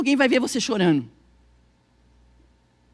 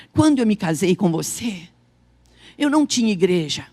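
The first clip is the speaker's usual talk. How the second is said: low, measured husband's words; earnest reassurance, retold; 6 semitones lower than usual. Pastor reminding his wife of their wedding days, retold in low earnest tones. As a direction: lower the voice and speak tenderly, with pauses.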